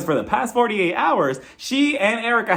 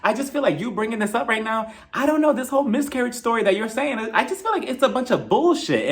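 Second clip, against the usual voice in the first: higher-pitched imitated challenge; mock accusation; 5 semitones higher than usual. Kyle doubts Sutton's miscarriage story, accusing imitation. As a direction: voice someone openly disbelieving another's story.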